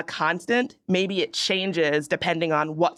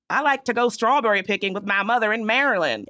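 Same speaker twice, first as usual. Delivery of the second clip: Southern accent; 3 semitones higher than usual. Shown as a demonstration. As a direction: say it like folks back home in the South. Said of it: "How would a Southern accent say it?".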